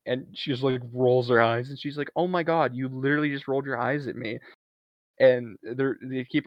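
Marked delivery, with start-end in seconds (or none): 2.2-4.4 high-pitched start, then quick accusation; retold outrage, high then tumbling out; mock indignation. Alice catching Jordan rolling her eyes, mock indignation.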